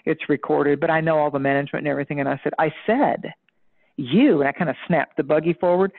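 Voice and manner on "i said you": insistent, moderately raised voice. Retold or imitated. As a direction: punch it out as a warning. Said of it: "when I raised my voice".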